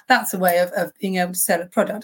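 slightly husky, worn voice. Real, not acted. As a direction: talk with a touch of husky rasp. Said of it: "I've got a slightly husky voice today".

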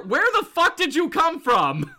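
high-pitched, incredulous demand; mock indignant. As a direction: demand it like an affronted villain. Acted indignant villain question.

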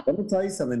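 New England gruff. Retold or imitated. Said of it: "such a fucking New Englandy kind of thing".

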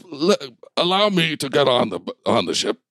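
lightly voiced fussy commander, halting delivery; giant bulldog leader. Bulldog asks to board the ship, lightly fussy commander.

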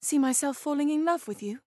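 hesitant, roundabout declaration with pauses; awkward bumbling. Pretend. Panelist flirts for a bonus point, awkwardly bumbling. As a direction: fumble politely toward confessing love. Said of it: "by being awkwardly bumbling".

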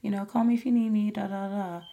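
imitating a going-through-the-motions caregiver; perfunctory. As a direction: rattle it off like a rote script. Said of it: "just do my job and be like".

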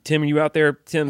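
calling out loud to someone; calling from far away. Pretend. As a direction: call his name into the distance. Calling out to artist Tim.

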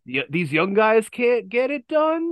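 put-on slow, drawn-out gravel of an old wrestler promo; Macho Man impression. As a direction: drag the words out like Macho Man cutting a promo. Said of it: "somebody told me that I sounded like a demon".

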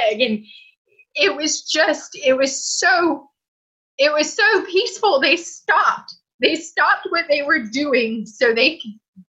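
slow, high, emotional voice near tears; choked up. Real, not acted. Patient recalling staff comforting her before surgery, voice breaking. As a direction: let the memory catch in your throat.

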